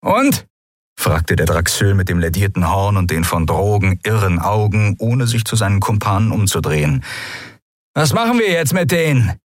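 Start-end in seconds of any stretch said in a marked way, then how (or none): 0.0-0.5 high, nasal-leaning sneer; drugged guard mocking the prisoners; sneering thug. Draxyl thug asks. 7.9-9.4 high, nasal-leaning sneer; drugged guard mocking the prisoners; sneering thug. Draxyl thug asks.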